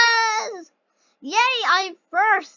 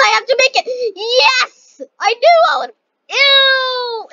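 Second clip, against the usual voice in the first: excited cry; 9 semitones higher, 8 dB louder than usual. Real, not acted. Racing, desperate to make jump.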